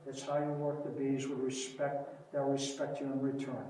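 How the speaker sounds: soft repeat. Retold or imitated. Beekeeper softly repeating his motto to the crowd. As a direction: drop the voice and let it land.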